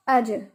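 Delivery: अज with the jeem bounced back; अज, jeem with a light echo; qalqala on jeem. Shown as a demonstration. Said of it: "इसलिए इसको ऐसे पढ़ा है".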